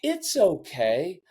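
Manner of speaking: slow, mild brush-off; a lightly mocked quick comfort; dismissive reassurance. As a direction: say it to wave the feeling away. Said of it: "rather than".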